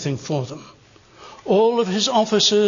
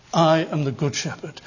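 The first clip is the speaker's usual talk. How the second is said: lower, measured, savoured claim; relishing the thought; 4 semitones lower than usual. Retold or imitated. Preacher quotes Jesus relishing his title, low and savouring. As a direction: savour the words in a lowered pitch. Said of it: "as if he's relishing the thought".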